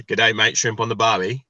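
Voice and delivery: mock Aussie catchphrase accent; stereotype Australian accent. Guest mocking the Aussie stereotype to his mates, broad Australian accent. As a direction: put on a broad Aussie greeting. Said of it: "what the stereotype, uh, Aussie Australian accent is".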